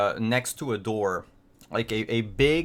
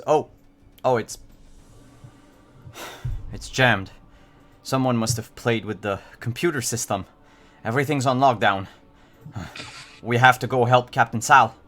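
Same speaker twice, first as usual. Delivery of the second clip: robot voice; 6 dB louder than usual. Acted. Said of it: "it says".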